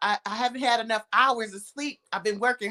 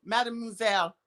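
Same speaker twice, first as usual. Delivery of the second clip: playful French; 5 semitones higher than usual. Pretend. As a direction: show off her French, hammed up. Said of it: "Let's start talking French".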